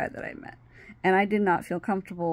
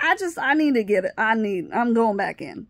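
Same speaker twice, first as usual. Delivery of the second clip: higher, louder, stumbling retold protest; flustered insistence; 3 semitones higher, 4 dB louder than usual. Telling her friend she is leaving, flustered insistence. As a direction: stammer it out, needing to leave.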